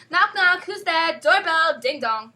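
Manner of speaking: funny doorbell. Acted. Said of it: "Funny doorbells".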